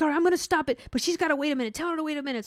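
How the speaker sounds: high-pitched mock exasperation; imitating upset coworker. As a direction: mimic an impatient coworker complaining. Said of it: "She got upset".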